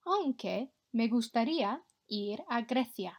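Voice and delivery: clear, careful Spanish for the class to copy; model Spanish pronunciation. Shown as a demonstration. Teacher modelling a Spanish line for pupils to repeat, clear and careful. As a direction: say each sound so pupils can echo it. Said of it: "echo my pronunciation".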